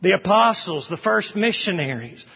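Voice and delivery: high, ringing preacher's cry; urgent call to repent. Acted. Preacher echoing the apostles' call, high urgent cry. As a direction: proclaim it like the apostles.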